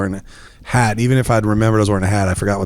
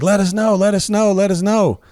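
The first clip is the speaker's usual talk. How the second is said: slurring, higher voice; slurred party guy; 10 semitones higher than usual. Retold or imitated. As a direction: slur it like a rambling guest.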